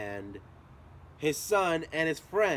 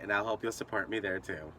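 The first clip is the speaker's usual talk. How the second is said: ordinary talk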